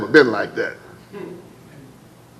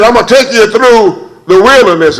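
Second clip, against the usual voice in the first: loud, high, proclaiming as God; God's voice ringing over the congregation; booming voice of God; 8 semitones higher, 5 dB louder than usual. Acted. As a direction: thunder it out as the Lord. Preacher voicing God.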